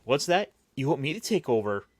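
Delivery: mock inquiry, pitch lifted at the start; feigned surprise. Best friend at a deathbed pretending to hear, feigned surprise. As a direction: lightly act out pretending to hear. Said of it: "and he's saying".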